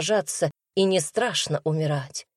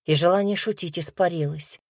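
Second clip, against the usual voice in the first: plain reading voice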